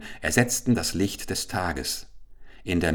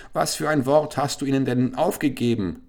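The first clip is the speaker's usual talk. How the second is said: higher questioning sorcerer voice; a curious sorcerer asks, raised pitch; other sorcerer; 6 semitones higher than usual. Acted. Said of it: "fragte ihn ein anderer Zauberer". (neugierig fragender Zauberer, höher)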